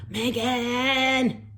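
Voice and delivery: high, loud angry call of a name; father's yell. Acted. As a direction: shout her name from across the room. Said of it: "yelled his, her father".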